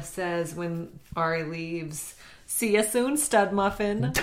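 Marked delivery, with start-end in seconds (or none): 2.5-4.1 a light hint of a Minnesota accent. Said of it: "That was in a Minnesota accent".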